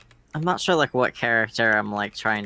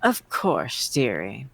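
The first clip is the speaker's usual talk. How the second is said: granny voice; slower than usual. Acted. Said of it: "Nana Sprite voice".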